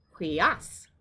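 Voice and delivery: hui-AS, weight on the end; stress on second syllable. Shown as a demonstration. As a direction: punch the "as" of "hui as". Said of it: "accent is on the second syllable".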